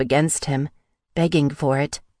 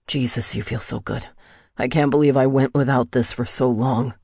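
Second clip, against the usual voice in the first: lowered, lightly breathless male character; panted; 2 semitones lower than usual. A narrator's reading. Kai confiding in Rika, lightly panted. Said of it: "he panted".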